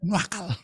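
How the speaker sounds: "nuakal" with an extra u glide for intensity; emphatic nakal. Shown as a demonstration. Preacher stressing how naughty the child is, emphatic "nuakal" with added u. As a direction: stretch "nuakal" into nu-A-kal, stressing the A. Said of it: "bukan nakal, nuakal".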